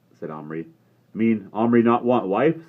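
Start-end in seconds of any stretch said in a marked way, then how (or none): 1.1-2.7 slow, higher puzzled question; Little Bear voice. A narrator's reading. Little Bear puzzling over Omri having no wife. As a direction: ask it in simple broken words.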